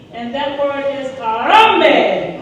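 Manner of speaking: Harambe as ha-RAM-be, slow and clear; Harambe said clearly. Shown as a demonstration. Leader teaching the crowd the word Harambe, slow clear. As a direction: say Harambe slowly, each syllable. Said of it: "scream it in Swahili".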